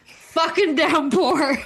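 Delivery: laughing at the sudden rain; laughing disbelief. Real, not acted. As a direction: drag it out through a laugh.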